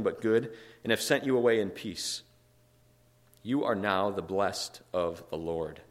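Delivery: emphatic, measured reading aloud; scripture reading. A narrator's reading. Preacher reading scripture to the congregation, emphatic and measured. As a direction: read the verse out, weighting key words.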